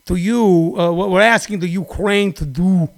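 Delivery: imitating Rudy Giuliani. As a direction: mumble like a shady lawyer hedging. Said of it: "Rudy Giuliani going".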